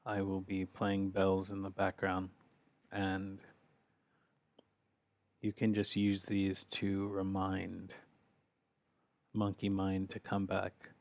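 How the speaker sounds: calm, unhurried meditation guidance; guided meditation. Real, not acted. Leader asks group to focus on the breath, calm guided meditation. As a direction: guide gently, with long pauses between phrases.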